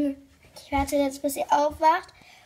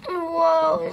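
startled shout; 7 dB louder than usual. Real, not acted. Sudden fall mid-ride.

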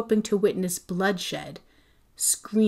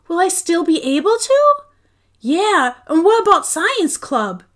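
anxious protest; 9 semitones higher, 8 dB louder than usual. A narrator's reading. Kids protest to mom.

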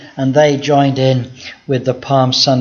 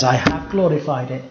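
hushed voice of God; 4 semitones lower, 8 dB quieter than usual. Acted. Preacher voices God answering.

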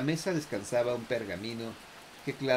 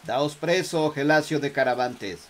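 commanding; 3 semitones higher, 6 dB louder than usual. Acted. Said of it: "lo llamaron imperativos".

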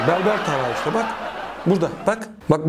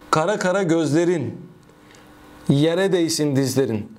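poem recital. Acted. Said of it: "Dur, okuyacağım".

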